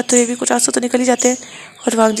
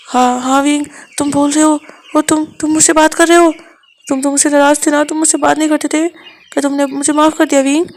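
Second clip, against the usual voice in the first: hurt lover, raised pitch, a little louder; Wang ji's voice; 4 semitones higher, 4 dB louder than usual. Acted. Wang ji amazed that Wing is talking to him, pleading. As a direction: ask it half-accusing, half-hopeful.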